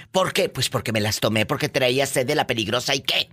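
mock defiant wife laughing; laughing defiant retort. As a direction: throw it back with a laugh.

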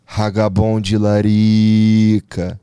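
slow, low product-name delivery; ad tagline. Acted. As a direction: drawl the tagline like a commercial.

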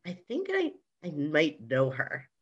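soft, hesitant imitation of a whisper; retold whisper. Man confiding he might know the dancer, imitated whisper. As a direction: repeat his confidential aside in a hushed voice. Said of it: "he sort of whispers to me".

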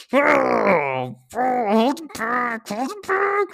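high, crying voice breaking; fighting back real tears; real sobbing, trying to hold it back; choked up crying. Real, not acted. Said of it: "Sorry, I got all choked up there".

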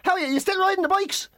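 high, eager stranger impression; overfamiliar greeting. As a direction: greet him like a long-lost pal.

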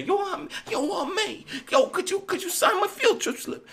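put-on very high, pleading kid voice with laughter; high squeaky Peter pleading with Aunt May; Peter begging Aunt May. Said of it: "He had to ask Aunt May".

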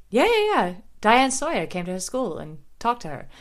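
brushing it off fast, with a pitch jump; mock brush-off. Bethany brushing off quickly.

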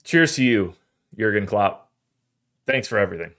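fighting back tears as he says goodbye; thanking Klopp with his voice breaking; choked up. Real, not acted. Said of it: "my voice is cracking".

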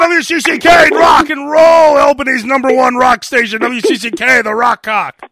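hammed-up rock DJ liner; rock radio announcer. DJ plugs Albany's rock station, stretched-out announcer hype.

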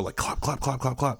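soft clicking horse-hoof clops; hoof clop imitation. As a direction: mouth the clip-clop of a trotting horse. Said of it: "that was really good what you just did right now".

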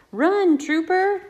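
high, loud and slow, calling the dog on; storybook cheer, run Trooper; excited urging. Acted. Reading chase scene to toddlers.

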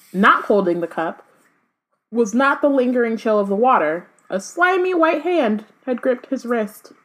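dramatic read-aloud of a novel; story narration. A narrator's reading. Reader tells co-host of the dead rising, story narration. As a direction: narrate the rising menace, leaning into key phrases.

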